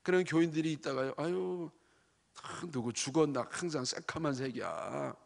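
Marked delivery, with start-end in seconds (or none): 1.2-5.2 grumbling negative churchgoer. Retold or imitated. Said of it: "부정적인 사람이 그런 얘기하죠".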